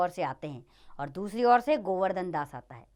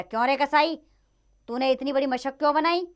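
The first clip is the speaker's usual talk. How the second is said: accusing interrogation; 5 semitones higher, 3 dB louder than usual. Acted. King interrogates the butcher.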